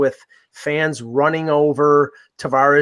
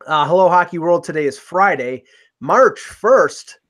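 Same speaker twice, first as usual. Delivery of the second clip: stiff robotic announcer read; flat, mechanical robot voice; 3 semitones higher than usual. Pretend. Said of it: "just do my r-, r-, robot voice".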